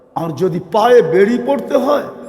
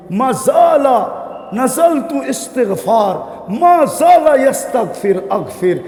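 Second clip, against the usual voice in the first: fervent recitation; 3 semitones higher than usual. Acted. Reciting Allah's words, shouting.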